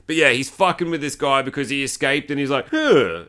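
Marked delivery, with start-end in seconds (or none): 2.7-3.2 short, mock caveman grunt; imitated grunt. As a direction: grunt like a movie hillbilly. Imitates the hillbilly's noise.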